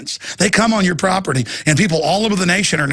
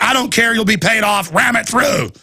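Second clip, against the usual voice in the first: mock banker; 6 semitones higher than usual. Acts out bankers pushing the tax.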